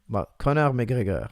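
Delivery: slow, Conor as kon-AR with a throaty r, McGregor as mee-GEH-guh; Quebec French name. Shown as a demonstration. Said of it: "can you say Conor McGregor in Quebec French".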